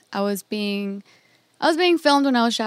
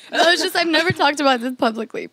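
laughing through tears; 4 semitones higher, 4 dB louder than usual. Real, not acted. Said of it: "I'm getting emotional".

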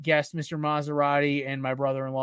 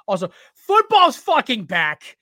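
loud, slow, hyped yell; hyped cheer; 9 semitones higher, 9 dB louder, slower than usual. Real, not acted. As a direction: cheer like the season just started. Cheering football's return.

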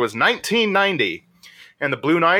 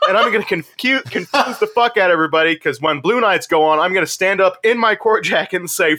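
animated, pitched-up imitation of a boast; retold defiant vow; 4 semitones higher than usual. Dutch Boy member vows to confuse everybody, mock defiance. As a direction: build the plan towards its punchline. Acts the man's vengeful plan.

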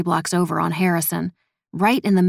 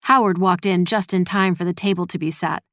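ordinary delivery

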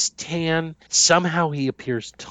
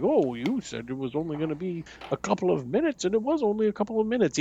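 impression of a friend; 5 semitones higher, 4 dB quieter than usual. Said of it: "he'd be like".

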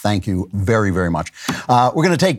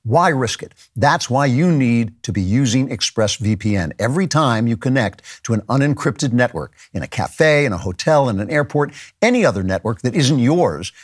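ad read. Acted. Host reads sponsor ad.

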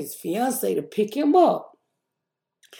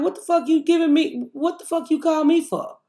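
raised indignant demand; retold angry yell; 8 semitones higher than usual. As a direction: tear into the supervisor. Yelling at the supervisor, retold.

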